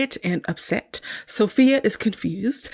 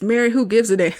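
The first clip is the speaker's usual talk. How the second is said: laughing through quote; 4 dB louder than usual. Retold or imitated. Quoting Mister's dad, laughing.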